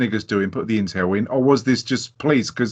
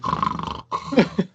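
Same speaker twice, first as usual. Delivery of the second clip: fake child snore; 7 semitones higher than usual. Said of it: "they lay in bed going".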